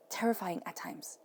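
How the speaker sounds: soft whisper after a sigh; sigh, then breathe the words. Real, not acted. Life is terrifying, sighed.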